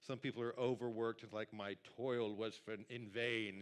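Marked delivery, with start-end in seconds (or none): 1.5-3.6 slow, lightly solemn archaic read; a hint of King James gravity; mock Old English. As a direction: intone it like an old scripture, slowly. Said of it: "you know, Old English".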